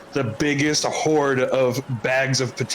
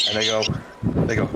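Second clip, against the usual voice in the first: ordinary talk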